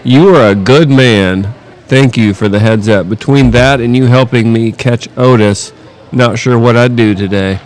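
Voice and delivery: slow, lightly put-on Southern drawl; Southern accent. Reading his neighbor's grateful text aloud in a Southern accent. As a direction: read it out with an unhurried Southern accent. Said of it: "Why'd you give him an accent?".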